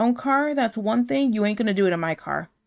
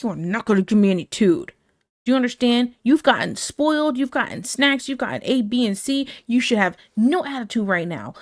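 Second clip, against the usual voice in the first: stern scolding; 2 semitones higher than usual. Retold or imitated. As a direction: lay down the law, tough love. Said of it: "tough love kind of girl".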